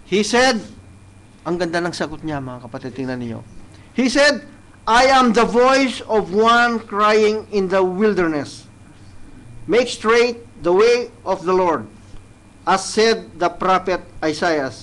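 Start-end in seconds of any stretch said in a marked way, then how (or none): 3.9-14.7 slow, solemn Bible reading; grave, measured verse reading; scripture reading. Acted. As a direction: lay out each word of the verse. Reads John's answer slowly.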